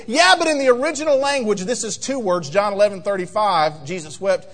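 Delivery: lightly voiced know-it-all; a hint of a show-off correcting someone; smart aleck. Pastor mimics a show-off correcting a trivia answer, smug. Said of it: "if you want to be a smart aleck and a show off".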